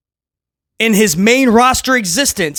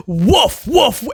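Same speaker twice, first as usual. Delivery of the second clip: laughing woof; 2 semitones higher than usual. Real, not acted. Repeating the bark through laughter.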